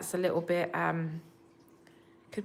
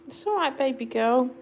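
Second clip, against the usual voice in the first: higher, cooing reassurance; high pet comfort; 4 semitones higher than usual. Real, not acted. Comforting her frightened cat after the attack in a high cooing voice. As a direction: coo it up high to calm the kitten.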